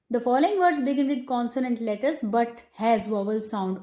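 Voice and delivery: slow, deliberate dictation pace; dictating a rule. Shown as a demonstration. Teacher dictating a grammar rule to students, slow and measured. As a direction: read it out word by word so students can write.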